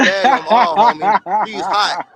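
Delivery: can't hold the laugh reading the comment; laughing through it. Real, not acted. Streamer reading a chat message to viewers, laughing. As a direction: read slowly, breaking into laughter.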